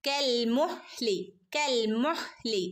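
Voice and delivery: slow കൽ മുഹ്ലി with a light stop on ഹ്; മുഹ്ലി, ഹ് only half-stopped, slowly; half sukun. Shown as a demonstration. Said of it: "half സുക്കൂന് കൊടുക്കുക". (ഹാഫ് സുക്കൂനോടെ മുഹ്ലി)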